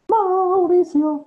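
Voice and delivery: loud, drawn-out call of the name. Real, not acted. Teacher calls out for a missing student, loud and drawn out. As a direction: call the name across the room. Calling absent student loudly.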